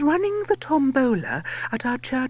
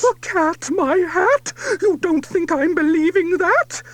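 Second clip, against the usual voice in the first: loud, higher scornful shout; angry shout; 7 semitones higher, 6 dB louder than usual. A narrator's reading. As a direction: shout it back in disbelief. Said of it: "The lady shouts".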